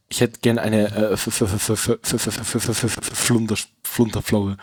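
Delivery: put-on stammering drunk voice; slurring and stuck on the F; blackout drunk. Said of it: "Thomas, du bist betrunken".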